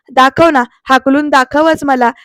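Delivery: slow, defiant challenge; defiant dare. Retold or imitated. Aarti daring Pruthvi to throw her out, slow. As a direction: dare him to try.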